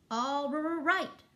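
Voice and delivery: loud, high rolled-r drumroll; stuttering drumroll on the first sounds; rumbling drum. A narrator's reading. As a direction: roll the r's like a drum. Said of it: "rumbled Drum as he took out".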